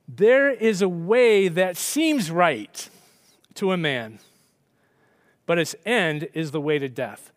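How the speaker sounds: slow, weighty verse reading; scripture reading. Real, not acted. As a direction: read the verse with solemn weight.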